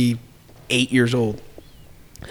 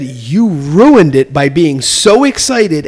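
father; 4 dB louder, much slower than usual. Retold or imitated. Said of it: "He said".

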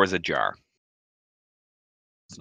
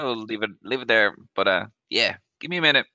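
put-on nervous young lad; 5 semitones higher, 3 dB louder than usual. Shop lad voiced by GM.

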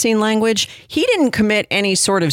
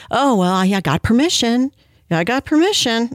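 lightly mimicked excuse-maker, a bit higher; mocking excuse; 4 semitones higher than usual. Host mimicking the pastor's excuse making, mildly mocking. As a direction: put on a mildly whiny self-justifying tone.

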